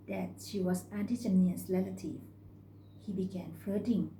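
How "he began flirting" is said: ordinary delivery, nothing marked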